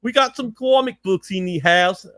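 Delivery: put-on rough go at an Aussie accent; attempted Australian accent. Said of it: "gotta say it with Australian accent".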